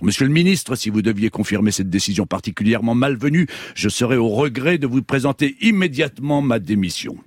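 a touch of barely held anger; mildly furious ultimatum; angry. Acted. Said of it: "Il ne put contenir sa colère".

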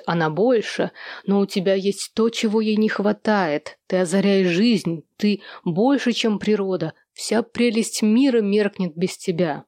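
measured recital of verse; lightly declaimed love poem; poetry declamation. A narrator's reading. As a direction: recite it line by line with pauses. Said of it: "декламировал".

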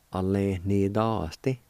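"A, le, ni, dos, ti" run together smoothly; whole word. Shown as a demonstration. Teacher blending the syllables back into one word. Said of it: "It's pronounced like this".

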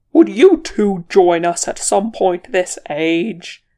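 loud, slow, exasperated roar. A narrator's reading. Wizard to the bickering pair mid-battle, exasperated roar. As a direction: bellow at them over the fighting. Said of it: "Gandalf roared".

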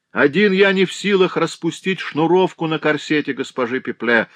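a hint of a mocking stranger; lightly voiced stranger. A narrator's reading. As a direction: stranger baiting the porter. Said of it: "продолжал незнакомый голос".

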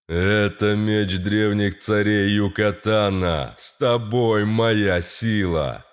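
low, slow booming deity; god voice. Acted. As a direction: speak as lord of the dead. God commands the hero.

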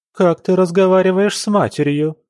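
high, loud outraged mother; mother rebuking her daughter for mocking her; indignant. A narrator's reading. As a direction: scold the daughter in shocked indignation. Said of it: "возмутилась Норберта".

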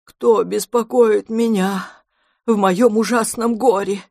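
трагично и медленно; изобразить безутешное горе; трагически. A narrator's reading. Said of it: "спросил трагическим голосом". (трагический голос, медленно)

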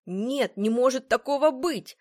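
vehement denial. A narrator's reading. Patrick hearing his friend cannot be saved, vehement denial. Patrick refuses the terrible news.

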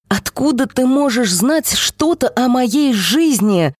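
breaks into a shout. Acted. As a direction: yell it out, slowly. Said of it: "Я сорвалась на крик".

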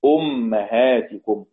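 أمهاتكم drawn out as "ummahātikum", u on hamza, a on mim; damma hamza, fatha mim. Shown as a demonstration. Teacher showing the other readers' way, أمهاتكم as slow "ummahātikum". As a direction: say أمهاتكم slowly, opening on u, "um-ma-hā-ti-kum". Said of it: "والباقون بضم الهمزة وفتح الميم".

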